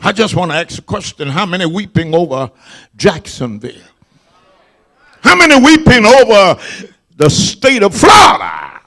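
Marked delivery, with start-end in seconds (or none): 1.3-3.9 quick hushed asking, voice dropping low; quiet, fast question. Acted. Preacher to congregation, hushed and fast. 5.2-8.8 preaching shout. Acted. Preacher repeats it louder.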